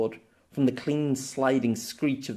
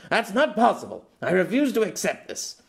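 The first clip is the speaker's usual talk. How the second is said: put-on higher, firm young woman's voice; girl's firm refusal; 8 semitones higher, 4 dB louder than usual. Girl refusing Pierre's claim, firm and haughty. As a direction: shut it down.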